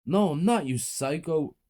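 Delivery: high defiant retort. A narrator's reading. Teacher defying the mother, angry. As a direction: fight back.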